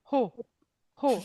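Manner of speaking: Ho with an aspirated English H; breathy H. Shown as a demonstration. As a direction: blow out the H in Ho. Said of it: "Un H soufflé comme en anglais".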